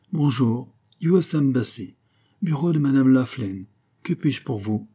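put-on French spoken with a heavy American accent; French with a thick American accent. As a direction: answer the embassy phone in an American accent. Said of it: "avec un épouvantable accent américain".

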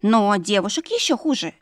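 high, folksy maid voice, lightly voiced; a simple village maid spilling gossip; gossiping servant girl. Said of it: "продолжила шептать служанка".

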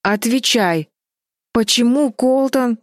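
a mildly stern sister's order. A narrator's reading. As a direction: press her for an answer sternly. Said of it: "строго сказала Флис".

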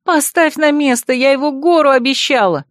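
high-pitched alarmed demand; frantic protest. A narrator's reading. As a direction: order the thief to stop, panicking. Heroine yells at cake thief.

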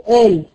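قال said Egyptian-style, with a glottal stop; qaf as hamza. Shown as a demonstration. Teacher showing Egyptian colloquial speech, qaf as hamza. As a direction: open قال on a catch in the throat. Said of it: "القاف همزة".

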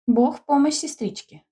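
playful teasing hello; cheerful. A narrator's reading. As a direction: call out cheerily to the girls. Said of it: "весело проговорила Воронская".

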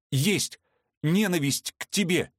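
high defiant cry; defiant outburst. Acted. Veronika defying Vorski, high defiant cry. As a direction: fling it back at him.

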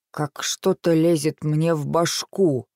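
put-on strong Irish accent, slow; sudden thick Irish brogue. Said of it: "прорезался сильный ирландский акцент".

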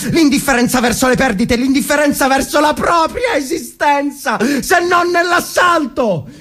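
builds from firm to a full shout; a passionate war speech climbing into a shout; rising battle cry. Acted.

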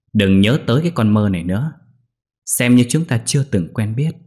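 a lightly voiced sarcastic maid; mock him coldly, understated; mocking sarcasm. Maid Mơ rejecting Lễ, mild mocking sarcasm. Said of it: "mỉa mai".

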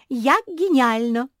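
loud, high, slow gleeful cheer; jumping with glee. A narrator's reading. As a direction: bounce with excitement. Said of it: "запрыгала Куки".

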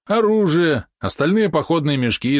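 high, loud regretful yap; yappy small dog. Acted. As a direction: wail it like a greedy little dog. Valeron lamenting lost loot.

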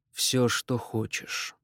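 slow, drained and quiet; slow reply. Acted. David slowly answers his niece, slow and drained. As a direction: let each word drag out wearily. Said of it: "Он медленно ответил".

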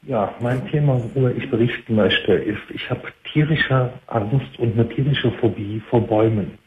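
hands-free phone. Real, not acted. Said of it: "Sprichst du mit einer Freisprechanlage?".

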